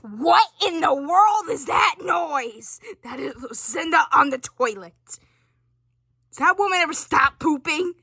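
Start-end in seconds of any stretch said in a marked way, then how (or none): 0.0-2.8 drawn-out, called out loud and slow; hammed-up slow holler at the noise; slow mock shout. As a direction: bellow the question slowly in mock alarm. Running joke about toilet noise.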